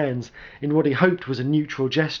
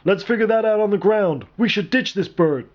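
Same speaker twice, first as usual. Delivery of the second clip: high, loud shout over engine roar; urgent soldier's yell, much higher and louder; 8 semitones higher, 4 dB louder than usual. A narrator's reading. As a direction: bellow it over the wind. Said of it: "Richter yelled".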